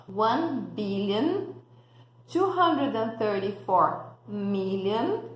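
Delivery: big number read slowly, in chunks; slow model number. Shown as a demonstration. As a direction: read the long number out carefully for learners. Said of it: "Vou falar um número bem grandão".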